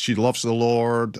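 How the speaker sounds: usual speaking voice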